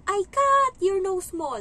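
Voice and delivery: put-on high, loud, slow kid's taunt; child's angry taunt. The angry child yelling at the nanny, high, loud and slow. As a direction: yell it slowly like an angry little kid. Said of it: "Sabi niya sa akin".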